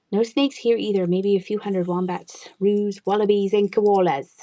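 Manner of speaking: lightly put-on Australian accent; a hint of an Australian accent. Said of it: "Do you like my Australian accent".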